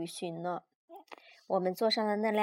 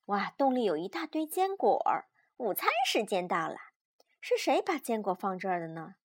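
put-on lively, measured read-aloud for small children; children's story narration; 6 dB louder than usual. A narrator's reading. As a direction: read a picture book to a child.

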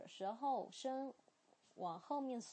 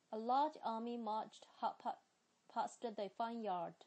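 A large army marched at a quicker pace; British accent, read a bit faster; 英式发音，读快一点. Shown as a demonstration. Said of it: "我来读快一点哈".

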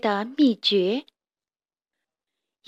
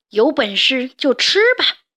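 a louder, fierce storybook growl from grandpa; fierce roar; 2 semitones higher, 5 dB louder than usual. Acted. Grandpa defies the hungry snake, fierce mock roar. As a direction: grandpa roars back so the snake backs off. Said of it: "爷爷凶狠地吼道".

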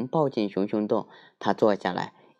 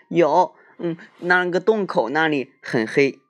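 little bear voice; 8 semitones higher, 5 dB louder than usual. Acted. Little bear points out dark.

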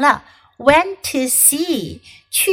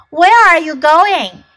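Raccoon voice; 5 semitones higher, 7 dB louder than usual. Acted. Raccoon voiced in read story.

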